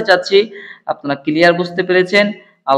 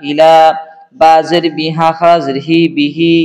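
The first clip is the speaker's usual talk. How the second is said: measured chant-like drill with long final vowels; spelling drill recitation. Shown as a demonstration. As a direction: recite each spelling evenly, drawing out the last syllable. Leads a letter-by-letter recitation drill.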